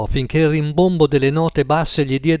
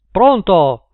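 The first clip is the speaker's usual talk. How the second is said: mouth full; 5 semitones higher, 7 dB louder than usual. A narrator's reading. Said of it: "parlava con la bocca piena".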